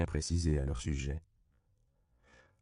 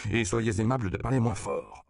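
higher, indignant request; remontrance; 6 semitones higher, 4 dB louder than usual. A narrator's reading. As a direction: scold him for being too loud. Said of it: "renchérit le père Octavio". (rappel à l'ordre agacé)

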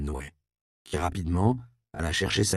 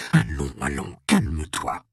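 energetic tone; 3 semitones lower than usual. Acted. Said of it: "d'un ton énergique".

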